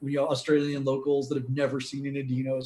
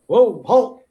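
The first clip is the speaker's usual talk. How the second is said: soldier's shout; 6 semitones higher, 8 dB louder than usual. Acted. Soldier stops the approaching car.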